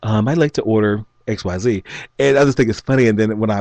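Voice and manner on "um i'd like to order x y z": lightly put-on proper phone voice; hint of a "white boy" customer-service voice. Shown as a demonstration. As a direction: politely place an order in code-switched speech. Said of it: "put my white boy voi-, voice on".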